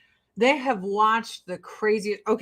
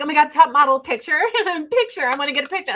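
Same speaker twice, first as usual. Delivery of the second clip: gushing fan; 5 semitones higher, much faster than usual. Retold or imitated. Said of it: "And I was like".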